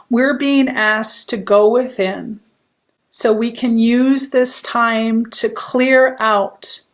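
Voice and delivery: unhurried guiding voice with long pauses; guided meditation. Acted. Hypnotherapist opening a meditation for fearful empaths, calm guiding voice. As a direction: lead listeners gently inward, one phrase at a time.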